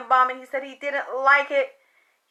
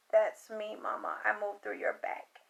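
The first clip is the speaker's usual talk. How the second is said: softer, hushed voice of the son; a quiet, faraway plea to mama; hushed ghostly plea; 4 semitones lower, 10 dB quieter than usual. Retold or imitated. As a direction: murmur it like a presence in the room. Voicing the son to his mother.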